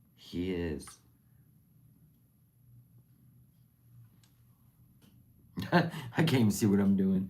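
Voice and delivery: crying while talking, speaking through tears. Speaking about someone old and dear to them, crying while talking. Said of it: "I'm crying now".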